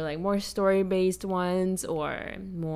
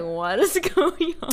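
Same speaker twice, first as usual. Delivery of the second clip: baffled; 9 semitones higher, 5 dB louder than usual. Retold or imitated. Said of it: "I was like".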